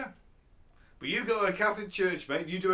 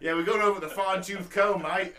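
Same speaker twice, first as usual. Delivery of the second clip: put-on Australian accent. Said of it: "that was an even accent".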